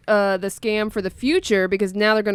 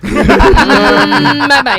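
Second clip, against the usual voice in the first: imitating sweet bye-bye; 5 semitones higher, 7 dB louder, much slower than usual. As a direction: copy the caller's sweet goodbye.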